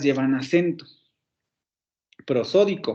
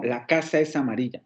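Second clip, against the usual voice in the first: "La casa es amarilla" falling, lower; as a statement; 3 semitones lower than usual. Shown as a demonstration. Teacher contrasts a calm falling statement. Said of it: "O afirmo".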